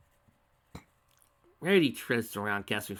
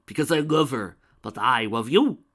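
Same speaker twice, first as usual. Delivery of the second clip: screamed; 4 semitones higher, 10 dB louder than usual. A narrator's reading. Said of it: "the mare screamed back".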